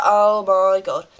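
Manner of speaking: slow, groaning mock dismay; drawn-out exasperation. Passengers hearing about the detour, slow exasperated groan. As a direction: stretch it out in weary disbelief. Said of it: "we're all just like".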